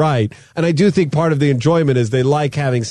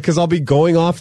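ordinary talk

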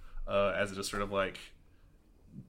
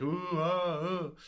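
put-on awed kids; 7 semitones higher, slower than usual. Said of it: "A lot of kids are like".

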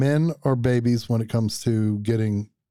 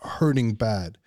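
whispered "hurting bad"; 3 semitones lower, slower than usual. Real, not acted. Husband describing his covid, whispered admission. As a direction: breathe it out in a whisper. Telling how ill he was.

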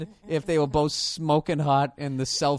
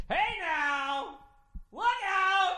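high, booming sports announcer call; loud announcer; 14 semitones higher, 3 dB quieter, much slower than usual. Retold or imitated. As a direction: boom it out like a Monday night announcer. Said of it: "The fucking announcer".

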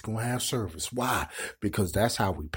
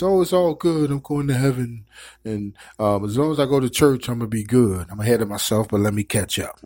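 mock complacent churchgoer; 6 dB louder than usual.

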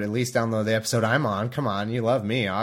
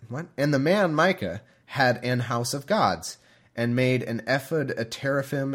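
scripture reading. Acted. Podcaster starting the chapter in a measured reading voice. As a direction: read the passage out with care. Reads Judges aloud.

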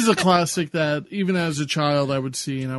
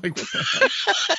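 high incredulous; 14 semitones higher, slower than usual. Real, not acted. Laughing reaction to the clip.

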